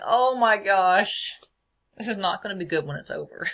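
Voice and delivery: the scared self in the corner; a touch of panic, half laughing; mock dread. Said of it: "I'm in the corner going".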